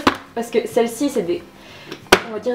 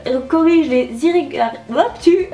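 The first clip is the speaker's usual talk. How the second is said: tongue-tied reading. Real, not acted. Beauty vlogger reading out product claims, tongue-tied. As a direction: stumble over the words and break off. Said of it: "je suis pas douée pour, euh, l'élocution".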